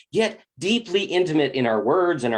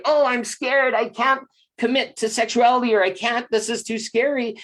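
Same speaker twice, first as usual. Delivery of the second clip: scared woman; 6 semitones higher than usual. Acted. Quoting a frightened woman backing out.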